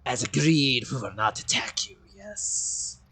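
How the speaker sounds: lightly voiced wolf confirming a bargain, whispered ending; a hint of talking beast. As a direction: agree like a sated wolf, trailing into a whisper. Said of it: "this voice for the wolves".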